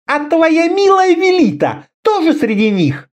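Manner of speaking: a leader reprimanding her men; Karela scolding. A narrator's reading. Karela scolding Orda then mocking Conan, tart.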